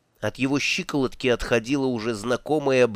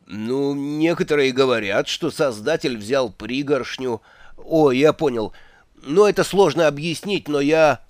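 сбивчивый волшебник. Acted. Ринсвинд мнётся, оправдывается.

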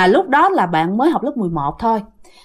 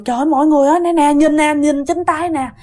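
mildly alarmed exclaiming, pitched up; retold calling out; 4 semitones higher than usual. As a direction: imitate calling everyone to look. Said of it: "chạy ra kêu mọi người".

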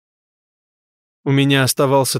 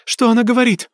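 anxious; 10 semitones higher, faster than usual. A narrator's reading. Mother pleading with medium.

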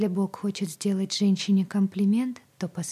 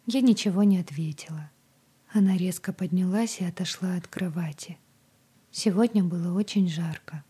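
plain reading voice

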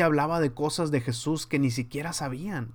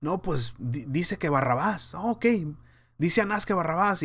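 higher-pitched imitation of followers passing word along; mock back-and-forth among onlookers; confused crowd chatter; 5 semitones higher than usual. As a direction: lightly act out gullible people relaying an order. Acted murmuring among the confused crowd.

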